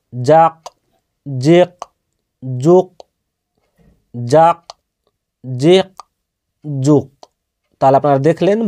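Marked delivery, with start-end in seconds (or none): 0.1-7.1 জাক, জিক, জুক with the final ক released in a short echoing bounce; qalqalah bounce. Shown as a demonstration. Teacher drills qalqalah on ক for students, bounced release. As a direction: bounce the ক of জাক like a tajweed reciter. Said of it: "কফ হচ্ছে হুরফে কলকলার".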